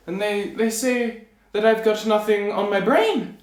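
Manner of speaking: high, halting little-man voice; confused tailor. Acted. Tailor telling the king what people say, puzzled.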